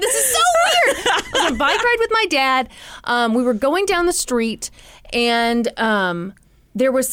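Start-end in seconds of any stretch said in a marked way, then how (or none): 0.0-2.7 high-pitched real laughter through the words; laughing. Real, not acted. Host amazed her story matches her friend's, laughing. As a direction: laugh in disbelief while talking, pitched way up.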